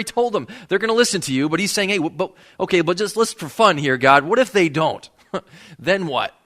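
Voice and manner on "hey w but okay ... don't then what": pleading Moses. Retold or imitated. Moses bargaining with God.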